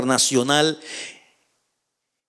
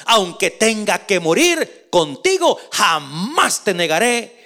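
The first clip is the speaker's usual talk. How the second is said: insisting; slower than usual. Acted. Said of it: "insistió Pedro".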